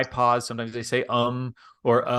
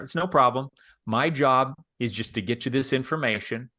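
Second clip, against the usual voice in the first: relaxed pitch. Shown as a demonstration. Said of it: "That's how I start".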